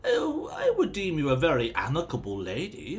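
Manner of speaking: a lightly voiced stuffy gentleman; a hint of Thavius's pompous tone; verging into Thavius. Rhea answers Lyra, slipping into Thavius's stuffy manner. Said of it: "I'm kind of verging into Thavius here".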